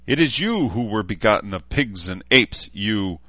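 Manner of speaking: high, loud jeering insult; mocking taunt. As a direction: needle him, savour each insult. Knight's insulting taunt at orc.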